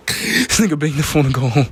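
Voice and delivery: repeating it through laughter; amused outrage; laughing disbelief. Real, not acted.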